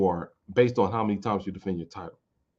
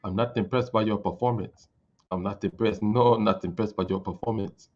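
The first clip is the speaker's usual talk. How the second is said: typing-like GSP. Retold or imitated. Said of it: "George Saint Pierre talks like you typing".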